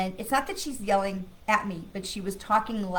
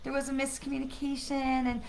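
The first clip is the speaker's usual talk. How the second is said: higher, hesitant mock apology; wishy-washy apology; 4 semitones higher than usual. Shown as a demonstration. Coach shows listeners how not to apologize, wishy-washy. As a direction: make a weak, excusing apology as a bad example. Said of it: "we are not saying it like".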